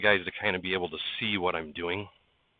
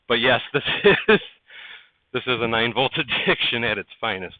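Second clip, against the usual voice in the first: louder words broken by laughs; laughing through words; 4 semitones higher, 8 dB louder than usual. Real, not acted. Streamer joking about his train addiction, laughing through it. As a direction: chuckle through the joke.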